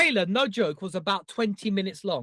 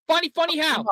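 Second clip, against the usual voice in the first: higher-pitched challenging wiseguy voice; Joe Pesci; 6 semitones higher, 3 dB louder than usual. Acted. Co-host trading film impressions, touchy wiseguy voice. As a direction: play a touchy movie gangster. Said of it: "any good Joe Pesci accents".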